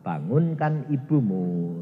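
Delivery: slow, low divine command; God gently commanding him home. Acted. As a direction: speak as God, slowly. Voice of God in testimony.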